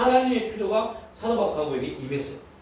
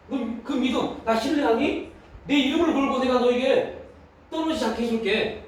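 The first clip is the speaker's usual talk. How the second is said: lightly acted divine appeal, raised pitch; God; 4 semitones higher than usual. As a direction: plead for trust, pitched higher. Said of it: "하나님 말합니다". (높은 음으로 믿음을 촉구하듯)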